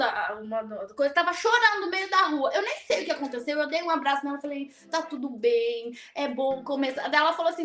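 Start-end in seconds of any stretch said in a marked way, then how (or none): 4.9-7.1 gentle reassurance. Retold or imitated. Retelling words to a crying woman, gently reassuring. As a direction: soothe them softly, without hurry. Comforting a crying stranger with hug.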